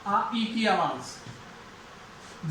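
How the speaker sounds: "आ, ई" drawn out very slowly and quietly; teacher stretching the sounds for the class; slow, soft vowel demo. Shown as a demonstration. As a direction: linger on each vowel of "आ, ई". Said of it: "right".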